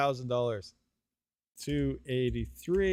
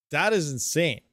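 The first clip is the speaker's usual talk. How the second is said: louder, punched on THAT; "That is insane" with THAT hit hard in amazement; excited disbelief; 4 dB louder than usual. Real, not acted. Stunned by mining profits.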